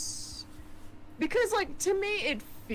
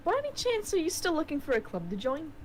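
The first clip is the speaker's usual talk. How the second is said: put-on New Zealand accent; 4 semitones higher than usual. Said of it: "keep using the New Zealand accent".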